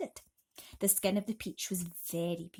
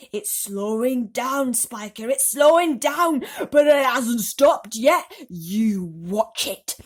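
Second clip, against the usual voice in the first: insistent aunt; 4 semitones higher, 10 dB louder, slower than usual. A narrator's reading. Aunt arguing back.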